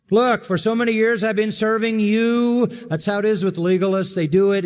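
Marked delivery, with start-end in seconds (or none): 0.1-2.6 bitter. Retold or imitated. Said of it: "It's bitter".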